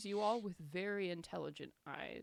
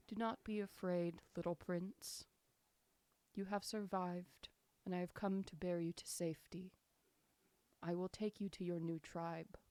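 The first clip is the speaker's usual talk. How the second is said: soothing voice. Acted. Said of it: "a very soothing voice in your head".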